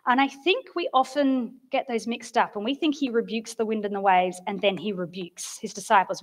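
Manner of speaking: ordinary delivery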